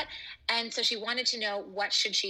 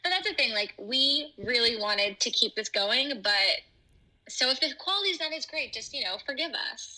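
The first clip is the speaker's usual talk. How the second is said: re-recorded through speaker; 3 dB louder than usual. Real, not acted. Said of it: "that's why her audio is a little different".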